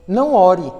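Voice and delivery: forceful preacher warning; sharp command. Acted. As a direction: snap the ban on praying. Preacher forbidding prayer.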